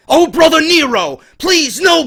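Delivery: mock theatrical Brother Nero accent. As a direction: attempt the Brother Nero accent half-jokingly. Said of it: "I can't do the accent".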